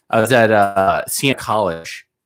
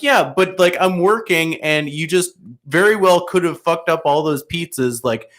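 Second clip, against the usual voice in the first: exasperated complaint; 5 semitones higher than usual. Retold or imitated. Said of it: "I was just like".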